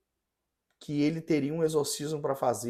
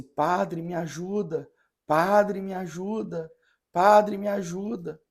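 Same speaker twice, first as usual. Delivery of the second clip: higher-pitched imitation of a plea, repeated insistently; pleading girl; 5 semitones higher, slower than usual. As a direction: retell her cry for help, each "padre" pushed higher. Girl begging the priest for help. (menina suplicando, imitada em tom mais agudo)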